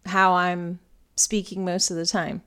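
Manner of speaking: demonstrating an everyday English accent; natural English-accented speech. Shown as a demonstration. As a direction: speak as an English person would day to day. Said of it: "this is probably going to be how I'm speaking".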